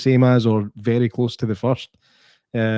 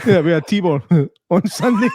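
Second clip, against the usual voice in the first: goofy laugh; 3 semitones higher than usual. Retold or imitated. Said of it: "Why did you do a wee goofy laugh there?".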